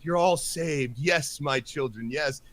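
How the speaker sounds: hint of a saviour blessing his flock; lightly voiced holy figure. Imitating fake God addressing his children, mock benevolent. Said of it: "this guy's like".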